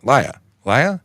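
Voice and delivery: New York "liar" with the r dropped; playful try at a New York accent. Shown as a demonstration. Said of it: "It sounds like a liar".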